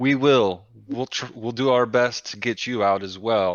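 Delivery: harsh, cutting, insulting-sounding tone. A player character answers a plea for help in Gnomish, in a harsh tone. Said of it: "but in a harsh tone".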